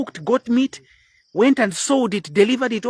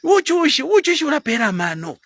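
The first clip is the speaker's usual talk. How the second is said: Zambian accent; 4 semitones higher than usual. Shown as a demonstration. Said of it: "this accent that I have now".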